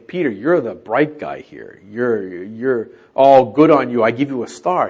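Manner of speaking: lightly mocking the bright guy; mock praise. Shown as a demonstration. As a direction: hand out a gold star with mild sarcasm. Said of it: "I would contest that not saying".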